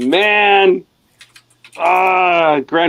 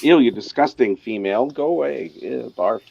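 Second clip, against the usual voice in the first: disgusted. Retold or imitated. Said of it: "It's like".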